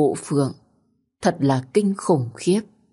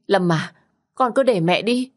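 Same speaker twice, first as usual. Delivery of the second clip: rising desperate plea; 4 semitones higher than usual. Acted. Mother begs again, higher.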